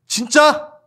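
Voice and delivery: high, loud, amazed gasp of joy; excited disbelief. Retold or imitated. Believer hearing of the resurrection, high excited cry. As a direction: react like the best news ever. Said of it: "이게 나와야죠".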